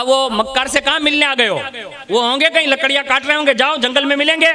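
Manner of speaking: tossing off the visitor like a sharp-tongued wife; a hint of an irritated housewife; scolding wife.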